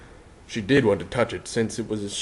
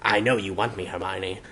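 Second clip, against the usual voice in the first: husky; 2 semitones lower, 4 dB quieter than usual. Acted. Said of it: "the hat said huskily".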